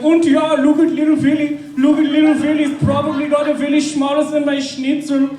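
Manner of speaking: put-on high, taunting German accent; German bully accent. German ringleader mocking Willy, high taunting German accent. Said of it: "he'd be like".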